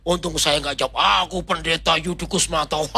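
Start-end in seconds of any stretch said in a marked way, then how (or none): 1.2-2.8 mock-heroic stage announcement; hammed-up self-introduction, played for laughs; ketoprak theatrics. Pastor jokingly answers the demon, ketoprak-style theatrics. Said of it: "Itulah ketoprak".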